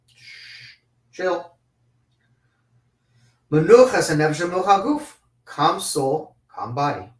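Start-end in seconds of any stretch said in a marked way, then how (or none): 0.1-1.6 soft unvoiced shush, then a light chill; hushing. Speaker hushing a heated person, soft shush. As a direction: hush them down gently.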